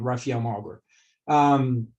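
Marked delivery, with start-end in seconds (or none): 0.0-0.8 "Rafael Malgor" said the American way, with a hard American r in "Malgor"; Americanized name. Shown as a demonstration. A doctor showing how American patients mispronounce his name, in an anglicized accent. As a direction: give "Rafael Malgor" the anglicized vowels and r sounds. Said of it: "That's how they say my name".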